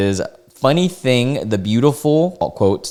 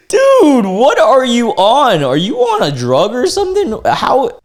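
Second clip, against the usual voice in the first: incredulous yell; 14 semitones higher, 6 dB louder than usual. Real, not acted. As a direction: yell at the screen in total confusion. Shouting at the absurd message.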